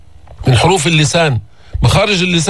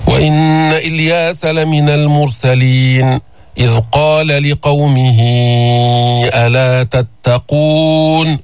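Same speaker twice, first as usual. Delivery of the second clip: slow, melodic tajweed recitation; measured Quran chant; slower than usual. Shown as a demonstration. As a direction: recite the verse slowly and evenly. Teacher recites the verse.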